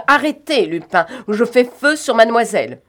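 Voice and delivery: loud, high shouted threat; aiming a gun, shouting a warning; raging yell; furious threat. A narrator's reading. Sholmes threatens with a revolver.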